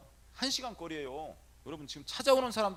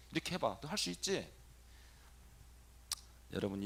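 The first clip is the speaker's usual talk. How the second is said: usual speaking voice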